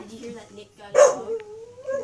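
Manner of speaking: slow loud stage whisper; whispered the question again, slowly. Acted. Repeats the question over the shouting.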